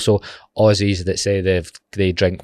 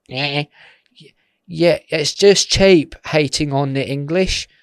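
whiny mock critic; 6 semitones higher than usual. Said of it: "I get".

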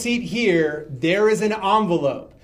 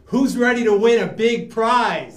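hype shout; 3 semitones higher than usual. Acted. Hyping the audience.

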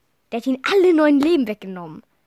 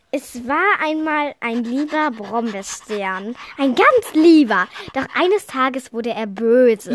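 storytelling; slower than usual. Acted. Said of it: "Mach das aber witzig".

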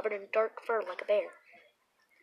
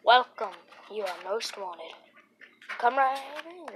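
booming creepy welcome; spooky host; 4 dB louder than usual. Acted. Host welcoming listeners in a spooky voice. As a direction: greet them like a haunted-house host.

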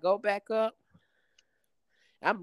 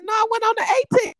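retold protest; 13 semitones higher, 5 dB louder, much faster than usual. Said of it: "I said".

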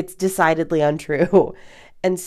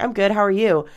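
higher, lightly chirped reflex pleasantry; quick mock small-talk reply; automated response; 4 semitones higher, 3 dB louder than usual. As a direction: answer on autopilot, a touch higher. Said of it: "automated kind of response".

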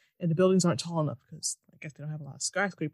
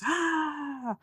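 mock scream; 8 semitones higher than usual. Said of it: "And she screams".

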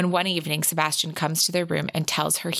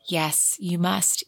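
very slow, unvoiced and hushed; slow whisper; much slower than usual. A narrator's reading. Evie urging Sebastian to take the risk, slow whisper. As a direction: breathe each word out gently.

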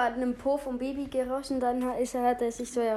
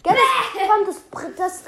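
tongue on fire, stammering high; sputtering with a burning mouth; mouth burning from spicy food; 4 semitones higher, 6 dB louder than usual. Real, not acted. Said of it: "als würde die Zunge verbrennen".

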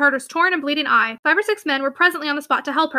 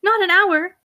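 higher, louder incredulous echo; indignant disbelief; 5 semitones higher, 3 dB louder, slower than usual. A narrator's reading. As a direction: throw the words back in disbelief. Mistress repeats in indignant disbelief.

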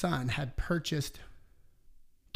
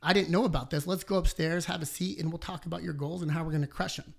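upbeat greeting; 3 semitones higher than usual. Retold or imitated. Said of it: "I'm like".

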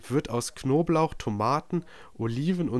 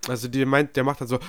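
ordinary delivery

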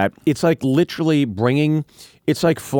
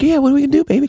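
put-on much higher, sing-song girlfriend voice; mock girlfriend; 14 semitones higher, 4 dB louder, much faster than usual. Voicing Jenny to his cohost, high and eager.

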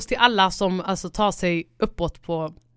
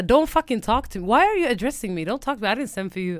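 raised, hammed-up brush-off; mock angry snap; 3 semitones higher than usual. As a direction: push them off with put-on outrage. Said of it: "ibland jag blir så här". (spelad irriterad avvisning)

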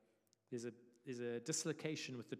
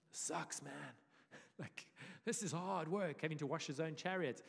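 whiny Pharaoh; 4 semitones higher, 4 dB louder than usual. Retold or imitated. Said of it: "He's like".

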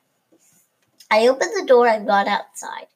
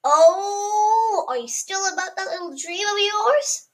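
laughing; 7 semitones higher than usual. A narrator's reading. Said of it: "Dad said, laughing".

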